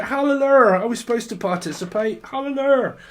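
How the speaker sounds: high, loud hallelujah cry; hammed-up churchgoer; imitating a confused churchgoer; mock hallelujah singer. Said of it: "It's like".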